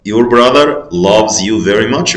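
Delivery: "loves" said clearly, slow; slow right answer. Shown as a demonstration. Teacher reading the correct sentence to the class, slow. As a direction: give the full answer slowly. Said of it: "اوكي، your brother".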